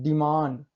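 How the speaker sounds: डिमांड with the first vowel as ee, "dee-mand"; long e sound. Shown as a demonstration. Teacher demonstrating the rule, ee sound in डिमांड. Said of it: "ई को हम बड़ी से पढ़ते हैं".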